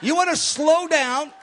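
slowed, drawn-out words. Shown as a demonstration. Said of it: "you want to go slower and softer".

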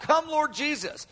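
high-pitched prayer call; crying out. Acted. Preacher voices the Spirit's prayer, lightly cried out. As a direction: call it out high without extra volume. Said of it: "to cry out".

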